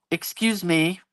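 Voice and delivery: a clipped, stern "excuse me" from a stranger in the dark. Retold or imitated. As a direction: sound like a strict neighbour cutting you off. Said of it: "like, really stern".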